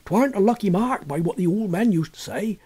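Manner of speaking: a fisherman's folk warning; lightly voiced country old-timer; superstitious villager. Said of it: "said a third".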